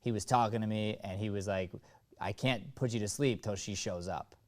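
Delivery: deadpan sarcastic. Shown as a demonstration. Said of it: "he's just being deadpan".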